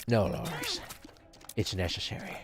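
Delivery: a hint of the TARS robot; mock movie robot. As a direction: voice the ship's robot calmly. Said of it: "It's not Lars, is it?".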